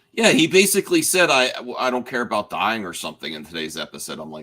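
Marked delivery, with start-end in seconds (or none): none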